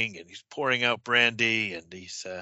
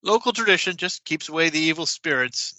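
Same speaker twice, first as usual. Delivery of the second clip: embarrassed landlord; 4 semitones higher than usual. Acted. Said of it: "embarrassed smile".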